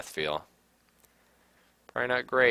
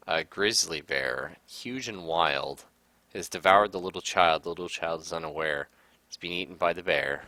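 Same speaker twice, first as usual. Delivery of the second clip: poem reading. Acted. Reads in-game poem aloud.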